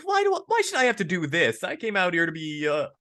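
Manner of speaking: high-pitched put-upon whine; high mock gripe about business; mock whiny complaint. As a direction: whine like a fed-up artist. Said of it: "you're just like".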